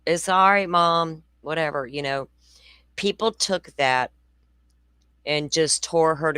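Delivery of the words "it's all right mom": son yelling back. Retold or imitated. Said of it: "And he yells back".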